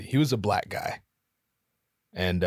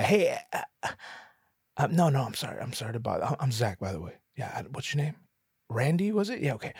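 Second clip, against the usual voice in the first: polite approach; faster than usual. Pretend. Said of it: "wants to ask this guy".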